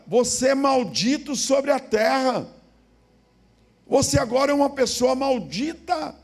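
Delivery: loud, high, fervent sermon; forceful preaching of the verse; preaching at full force. Acted. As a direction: proclaim it to the church. Preaching to congregation.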